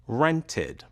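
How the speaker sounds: "Rented" carefully in two beats, ren-tid; two syllables shown. Shown as a demonstration. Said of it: "has two syllables".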